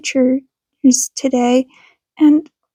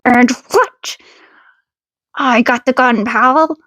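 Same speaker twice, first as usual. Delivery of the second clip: tough retort. Acted. Feathered-eared man snapping back at the gunman, cocky. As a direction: turn the tables, cocky.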